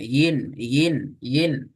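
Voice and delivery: இன் said as "yin", tongue middle lifted. Retold or imitated. Teacher copying a student's lifted tongue, gliding "yin". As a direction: copy the mistake: "y" before each இன். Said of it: "நடுப்பகுதி மேல தூக்குறீங்க".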